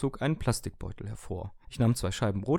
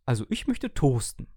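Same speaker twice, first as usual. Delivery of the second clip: upbeat toaster stating its wish; cheerful explaining; 3 semitones higher, 4 dB louder than usual. Acted. Toaster happily tells owner its wish, cheerful. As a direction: brightly declare it. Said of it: "erklärte der Toaster aufgeräumt".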